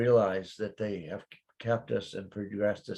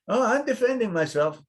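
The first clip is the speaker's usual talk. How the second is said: higher, louder sighing reply; mock weary reply; 13 semitones higher, 8 dB louder than usual. Playing a Frenchman answering how are you, higher and louder. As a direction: sigh it out like a put-upon Frenchman.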